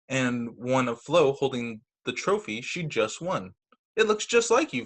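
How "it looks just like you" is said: high, delighted voice; admiring sister. Acted. Sarah praising Sam's painting of Flo, high and delighted. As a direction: gush with admiration.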